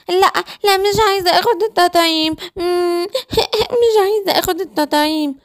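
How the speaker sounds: put-on high pleading child voice; little girl whimpering no at the shot; child refusing. Child begging doctor to leave, high whimpering refusal.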